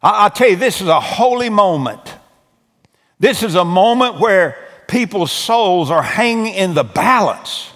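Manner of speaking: impassioned preacher urging the crowd; fervent sermon delivery; preaching. Acted. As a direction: plead with the congregation like a revival preacher. Preaching altar call.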